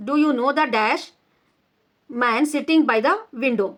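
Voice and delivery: slow, deliberate reading of a grammar rule; measured classroom dictation; slow textbook reading. Shown as a demonstration. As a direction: read each word out slowly for the class. Reads exercise question aloud.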